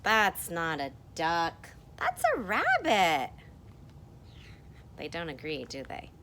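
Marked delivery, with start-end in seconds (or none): 0.0-3.3 second character. Acted. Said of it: "And this person says".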